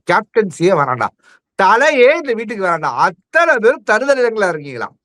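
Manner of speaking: mock-angry telling-off of the whole house; angry Bigg Boss. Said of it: "big பாஸ் கோவப்பட்ட moment". (கோபமாகத் திட்டுவது போல நடித்து)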